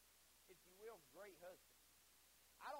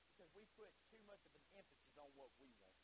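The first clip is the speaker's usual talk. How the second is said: low, much softer preaching; quiet admission; 5 semitones lower, 9 dB quieter than usual. Real, not acted. Preacher owning up to the congregation, subdued. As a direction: drop it down to a confiding hush. Quiet confession before louder repeat.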